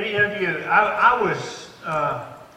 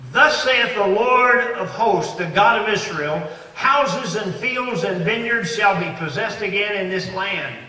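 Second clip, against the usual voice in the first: scripture reading; 2 semitones higher, 4 dB louder than usual. Acted. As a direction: proclaim the verse, loud opening easing off. Reads scripture aloud to congregation.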